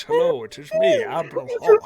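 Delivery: silly high voice. Acted. GM mocking how Admiral Hawk now talks, in a high silly voice. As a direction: squeak it out as a goofy admiral. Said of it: "This is how he talks".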